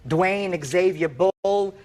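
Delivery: slow, deliberate reading of the name; measured reading of the signed note; reading slowly. Shown as a demonstration. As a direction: read each name out slowly as proof. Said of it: "It clearly says".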